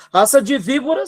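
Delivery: "raça de víbora" thrown out high and loud; forceful rebuke. Shown as a demonstration. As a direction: denounce them: "raça de víbora". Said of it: "você tem que bater na mesa". ("raça de víbora" com força, em tom de denúncia)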